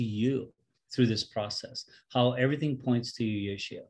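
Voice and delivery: prayer. Acted. Leads an opening prayer.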